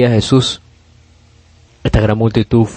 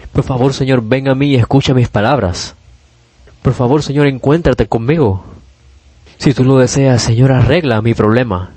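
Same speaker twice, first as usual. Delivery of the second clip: mildly pleading, raised pitch easing toward usual; acted heartfelt plea; 2 semitones higher than usual. Preacher as a blind man begging Jesus for help, restrained plea. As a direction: beg the Lord earnestly, understated, gradually settling. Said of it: "¿Con qué clase de corazón será que ellos gritaron?".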